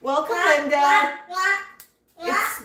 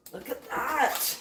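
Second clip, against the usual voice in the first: soft repeat; 8 dB quieter than usual. Real, not acted. Admiring the bird again.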